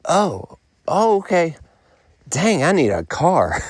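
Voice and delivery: suddenly realising you have no car; caught off guard. Retold or imitated. Talking to himself after the clients call back, startled and flustered. Surprise phone call from tourists.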